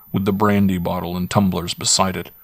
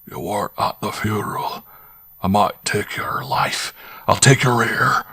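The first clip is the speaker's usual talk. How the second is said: stern voice; 2 semitones higher than usual. Acted. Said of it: "a stern, deep voice saying".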